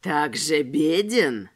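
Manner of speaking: slow, low mocking echo; disbelieving. A narrator's reading. Tramp doubting Robespierre's poverty, slow mocking disbelief. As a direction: repeat it with sneering doubt. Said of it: "недоверчиво повторил сифилитик".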